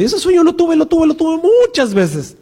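the man marvelling at his repeated dream, mock-awed; awed dreamer. Retelling a man's recurring dream.

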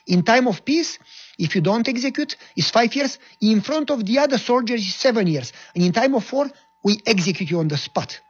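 threatening captain. Retold or imitated. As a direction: lay down the law menacingly. Captain reciting punishments threateningly.

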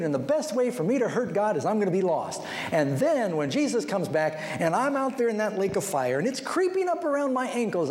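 mock spiteful defiance. Mocking spiteful sinner.

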